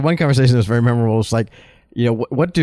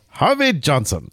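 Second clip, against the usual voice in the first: put-on slow Japanese-accented delivery, dropped r; 2 semitones higher, slower than usual. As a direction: imitate a Japanese workman drawing out the name. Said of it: "my group of Japanese workmen said".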